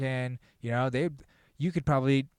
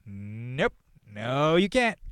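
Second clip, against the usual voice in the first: louder, higher scolding of the priest; mock Pope scolding; 3 semitones higher, 5 dB louder than usual. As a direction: shoo the priest off, loud and high. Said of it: "he's like".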